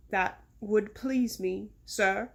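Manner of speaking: very slow, lightly voiced meek reply; obedient servant. Mister Seven hopes to lose the hat, mildly meek. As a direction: answer slowly, as a deferential servant.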